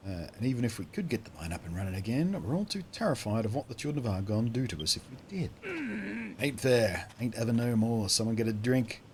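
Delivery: lightly voiced Australian miner; hint of a downcast Australian miner; Australian accent. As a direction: complain in a mild Australian accent. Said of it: "certainly Australian".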